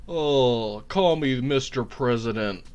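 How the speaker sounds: subdued afterglow, lightly voiced; Jeb Bush. Comedian's politician winds down after climax, light Jeb Bush impression. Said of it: "that's Jeb Bush when he comes".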